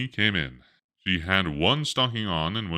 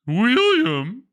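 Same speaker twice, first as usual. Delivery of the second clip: shouted much higher and louder; loud call; 7 dB louder than usual. Acted. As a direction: yell up into the tree. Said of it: "he called".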